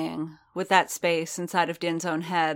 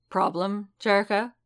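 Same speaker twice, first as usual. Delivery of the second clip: a light, curious query rising higher at the end; 4 semitones higher than usual. A narrator's reading. Boba asks his partner, perceptive, in a mild curious tone. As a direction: ask it with easy curiosity, not anger. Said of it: "He sounded curious".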